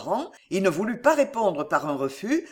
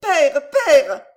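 high, loud repeated call; shouting; 8 semitones higher, 9 dB louder than usual. A narrator's reading. Daughter calling busy father, shouting. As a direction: call out to someone in the next room. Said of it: "cria-t-elle".

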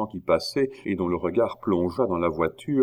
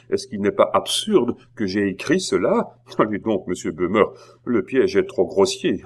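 scornful laugh; 3 dB louder than usual. Acted. Queen laughs scornfully at forgery.

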